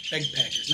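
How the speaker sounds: "Bagpackers" with a clear BEG first syllable; pronounced begpackers. Shown as a demonstration. Correcting backpackers to the nickname, "Bagpackers" said as beg-packers. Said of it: "not backpackers, bagpackers".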